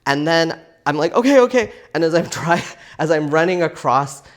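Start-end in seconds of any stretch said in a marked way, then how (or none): 1.1-1.7 high, loud panicked okay; flustered okay. Retold or imitated. Driver flustered by yelling police, high and panicked. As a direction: blurt it out in a rush.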